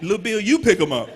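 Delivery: quoting the coach loudly, high, through laughter; laughing coach quote. Retold or imitated. Coach tells Little Bill to fetch him, laughing loudly. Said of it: "he's like".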